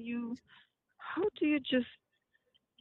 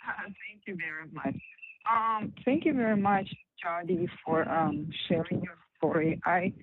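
breaking up like a weak cell signal; bad phone line; 2 semitones lower than usual. Real, not acted. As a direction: voice cutting in and out on a call. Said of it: "your voice is going in and out".

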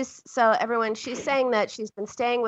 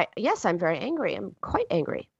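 mock restrained statement of anger; acted, intellectual admission of anger; thought-out anger; 3 semitones lower than usual. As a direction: report anger from the head, without feeling it. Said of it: "sort of thinking their feelings".

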